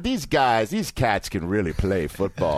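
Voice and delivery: a light take on Joe Namath's cadence; host imitating Namath at the Hall; Namath impression. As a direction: roll it out easy like Namath. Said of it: "He's got a cadence".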